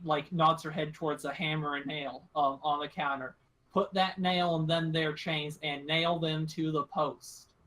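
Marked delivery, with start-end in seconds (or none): 3.7-7.5 lightly voiced rural captor giving orders; country-talking woman holding them at gunpoint; drawling gun-toting country woman.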